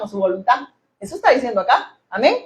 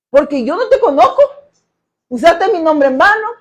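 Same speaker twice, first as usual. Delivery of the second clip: imagined Lord questioning; 2 semitones higher, 3 dB louder than usual. Retold or imitated. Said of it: "ya me imagino".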